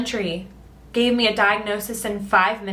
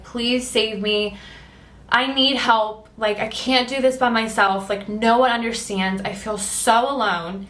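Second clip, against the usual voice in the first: slow, pleading prayer, pitch raised; crying out to God; 2 semitones higher than usual. Retold or imitated. Alone in the dark after work, pleading with God. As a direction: beg God for help through tears, slowly. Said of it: "I'm crying out to God".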